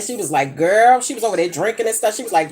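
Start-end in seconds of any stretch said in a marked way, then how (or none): 0.6-1.0 mock excited friend. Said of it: "she ain't say girl".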